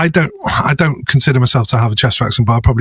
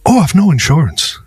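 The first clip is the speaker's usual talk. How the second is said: light imitation of an Irish accent; 3 semitones higher than usual. Irish friend admitting he has no insurance, mock Irish accent. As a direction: do your mate's casual Irish lilt, lightly. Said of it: "my Irish friend".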